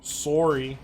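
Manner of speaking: sorry as sore-y, Canadian accent. Shown as a demonstration. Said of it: "in a Canadian accent".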